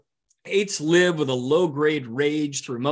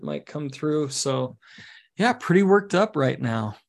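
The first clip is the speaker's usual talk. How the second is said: softer, easygoing mock of a calm nine; totally relaxed; 2 semitones lower, 4 dB quieter than usual. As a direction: claim stress but sound utterly laid back. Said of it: "you look totally relaxed".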